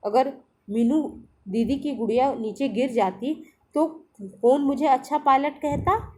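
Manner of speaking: put-on a boy lovingly telling off his toy plane; affectionate scolding. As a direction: tell off the plane with love. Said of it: "प्यार से डांटते हुए कहता है".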